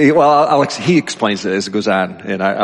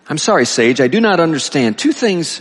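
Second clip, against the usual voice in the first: higher, projected book-reading voice; raised reading voice, questioning a sage; reading aloud; 8 semitones higher, 3 dB louder than usual. A narrator's reading. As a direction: read the dialogue out to a congregation. Reads book dialogue aloud.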